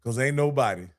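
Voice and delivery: put-on rally them like an old coach; Coach Cole impression. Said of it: "I'm gonna try to do my best Coach Cole impression".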